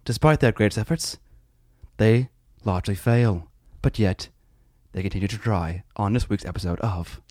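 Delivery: lightly voiced David Attenborough send-up; a hint of a hushed wildlife narrator; mock documentary narrator. Mock nature documentary intro.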